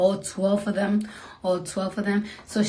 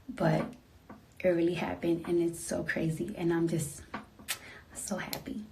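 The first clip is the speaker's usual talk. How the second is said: much softer, dropping into a whisper; 2 semitones lower, 8 dB quieter than usual. Real, not acted. Telling followers her news, softly whispering. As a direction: hush it, emotional and happy. Late night, emotional, quieting down.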